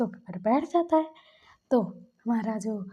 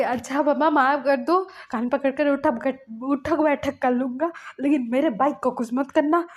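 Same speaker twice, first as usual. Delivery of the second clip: louder, mildly alarmed acted pleading; pleading apology; 3 semitones higher, 5 dB louder than usual. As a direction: beg forgiveness to save the bike. Acted hurried apology to protect bike.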